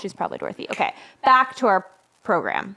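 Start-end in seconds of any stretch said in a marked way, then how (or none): 0.0-0.7 conspiratorial whisper. Real, not acted. Conspiratorial casting rumor to listeners.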